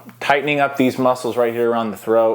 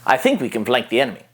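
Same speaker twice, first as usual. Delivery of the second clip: higher register, brisk; higher, fast tactical clone; analytical clone; faster than usual. Shown as a demonstration. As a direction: report it quickly to the commander. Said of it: "talking in a higher register".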